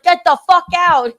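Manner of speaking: loud, high-pitched order to leave; protective yell. Retold or imitated. Friends throwing out the man dancing with her, retold protective yell. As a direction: yell to drive someone off. Friends chase off a club dancer.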